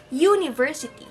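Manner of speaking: "University" as a model word, leaning on "U"; stress on U. Shown as a demonstration. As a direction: hit the "U" at the start of "University". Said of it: "stressed syllable there is the letter U".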